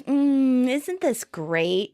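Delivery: loud Mm, then slow contentment; contented moan. Retold or imitated. Monica curled up with Chandler, contented moaning. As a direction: moan happily, then draw the words out. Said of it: "Monica moans".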